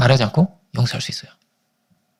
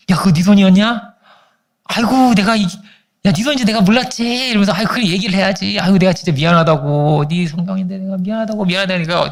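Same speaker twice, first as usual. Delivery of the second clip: lightly voiced apologetic mother; 3 semitones higher than usual. Mother apologizing to her upset son, lightly acted placating. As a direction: imitate a placating mother, words stretched.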